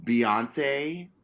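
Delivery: slow mock-theatrical awe, long pauses; hammed-up answer, sinking to a hush; dramatic reenactment. Answering whether she watched the Oscars, overdramatic reenactment. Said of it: "a dramatic reenactment".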